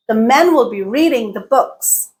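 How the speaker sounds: MEN, READING, BOOKS stressed, rest reduced; content words stressed. Shown as a demonstration. Teacher quizzing on stress, content words emphasized. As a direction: punch MEN, READing and BOOKS, squeeze "will be". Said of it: "What am I stressing?".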